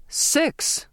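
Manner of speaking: high-pitched shocked exclamation; shouted. A narrator's reading. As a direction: burst out in disbelief. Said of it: "the captain shouted".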